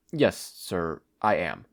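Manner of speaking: low, emotionless and flat-toned; despondent. Acted. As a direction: say it hollow, with nothing left. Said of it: "his voice despondent and emotionless".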